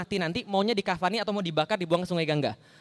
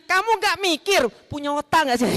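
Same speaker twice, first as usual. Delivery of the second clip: sharp rebuke; 5 semitones higher, 3 dB louder than usual. Shown as a demonstration. Preacher voicing God's rebuke with biting sarcasm. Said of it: "Itu sindiran dari Allah".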